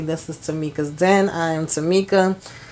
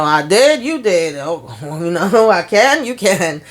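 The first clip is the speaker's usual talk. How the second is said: dazed parroting. Retold or imitated. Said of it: "repeating every daggone thing that he say".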